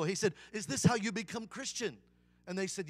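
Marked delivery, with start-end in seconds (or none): 0.5-2.0 put-on higher question in Vietnamese-accented English. Restaurant owner asks teenagers about becoming Christian, Vietnamese accent. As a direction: imitate a Vietnamese man asking. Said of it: "try to do a Vietnamese accent".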